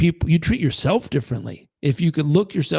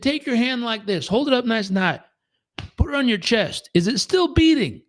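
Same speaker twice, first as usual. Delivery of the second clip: higher, lightly voiced old drifter; old man voice; 7 semitones higher than usual. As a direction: guide him like a wise old man.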